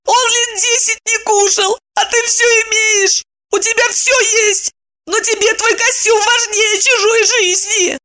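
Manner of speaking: high crying woman's shout; howling sob. A narrator's reading. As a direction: defend herself while wailing. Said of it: "не прекращая рёва".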